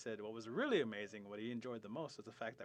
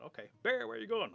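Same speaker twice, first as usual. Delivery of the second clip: high, loud question; hailing call; 12 semitones higher, 9 dB louder than usual. Retold or imitated. Storyteller retrying tale with animals, high hailing call. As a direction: call after an animal running by.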